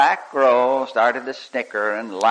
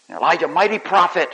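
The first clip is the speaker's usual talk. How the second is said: loud, higher, ringing proclamation; mighty prophet; 5 semitones higher, 4 dB louder than usual. Acted. Preacher extolling Elijah to the congregation, loud. Loud then hushed repeat.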